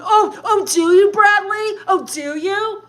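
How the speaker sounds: indignant, sarcastic questioning; mock indignation. Snapping back at chat insult.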